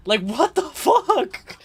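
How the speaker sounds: high, slow drawn-out what the fuck; mock outrage. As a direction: stretch it out in fake disbelief. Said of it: "Nah, I'm just kidding".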